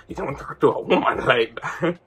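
Jamaican parent echoing with a rising, questioning tune; mocking repeat. Jamaican dad repeating his son's words back, mocking question. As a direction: throw the words back as an incredulous question, half laughing. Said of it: "Jamaican people just be repeating your question".

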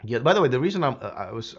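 chewing while talking; talking around a cough drop; mouth full. Real, not acted. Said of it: "sorry, I'm chewing on something".

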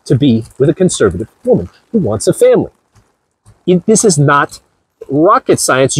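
ordinary talk

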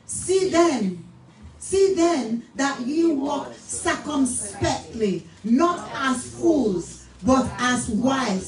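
slow, declamatory Bible reading; solemn reading to a congregation; scripture reading. Real, not acted. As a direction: proclaim each phrase with long, weighty words. Reads scripture aloud.

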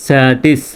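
"স্যা, টিস" as two separate syllables; teacher splitting "স্যা, টিস" piece by piece. Shown as a demonstration. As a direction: sound out "স্যা, টিস" with a break between the parts. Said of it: "ভাগ করে উচ্চারণ".

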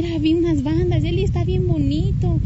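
bubbly, thrilled little brother sharing the news; happy excited brother. Retold or imitated. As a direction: brother bursting with joy about the bands. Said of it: "Bien contento que me platicaba".

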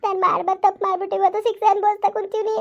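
acted tearful lament. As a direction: bewail your fate through light sobs. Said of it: "ಅಳ್ಬೇಡ ಸುಮ್ಕಿರವ".

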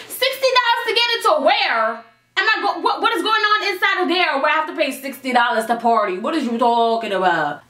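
indignant shock at the door price; outraged disbelief. Real, not acted. Outraged at sixty dollar cover.

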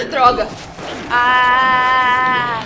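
loud cry of frustration; frustrated shout. Real, not acted. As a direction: curse it out loud. Attacked by the dog. (palavrão gritado)

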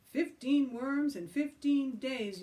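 loud, high, slow yell. Acted. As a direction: yell the terms back. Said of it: "yelled Joe".

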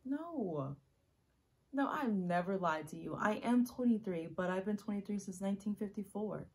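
loud, insistent confession; urgent, full-voiced admission; emphatic protest. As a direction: insist on it forcefully. Acted monologue, emphatic second take.

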